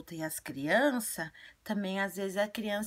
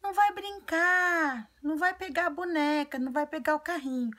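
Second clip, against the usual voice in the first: high, loud mock-scolding parent; bossy grown-up forbidding play; hammed-up strict parent listing punishments; stern parent; 10 semitones higher, 6 dB louder than usual. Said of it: "Ou falar assim".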